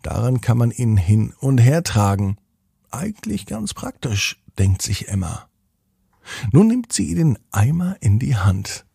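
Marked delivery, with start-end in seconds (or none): 2.9-4.4 put-on higher and softer girl's thought; a hint of a little girl musing; little girl thinking. Narrator voices Emma's thought, higher and softer.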